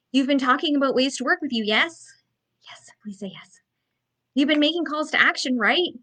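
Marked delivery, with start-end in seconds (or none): 2.7-3.6 whispered plea; pleading whisper. Real, not acted. Coach begs the audience to agree, whispering. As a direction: beg them softly in a whisper. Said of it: "pleading aside".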